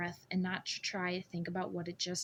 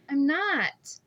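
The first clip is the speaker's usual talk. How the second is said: higher, louder defiant reply; defiant denial; 7 semitones higher, 9 dB louder than usual. A narrator's reading. Narrator insists to the scarred man, defiant. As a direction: fire back hard.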